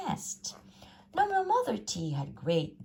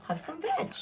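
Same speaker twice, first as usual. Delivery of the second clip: hooting; 12 semitones higher than usual. A narrator's reading. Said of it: "and they hooted".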